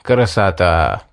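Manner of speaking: low, slow, drawn-out admiration; tenderly delighted. A narrator's reading. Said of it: "умилился я". (умилённо, протяжно)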